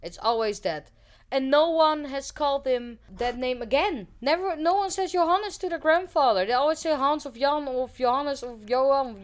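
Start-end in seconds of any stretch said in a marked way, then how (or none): 1.3-9.2 higher-pitched, animated protest; worked-up, emphatic complaint; indignant. Real, not acted. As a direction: argue it with rising indignation. Indignant about deadnaming.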